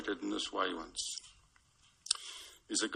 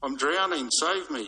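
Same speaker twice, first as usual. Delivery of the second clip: mock cry for help; 5 semitones higher, 6 dB louder than usual. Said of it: "the man cries out".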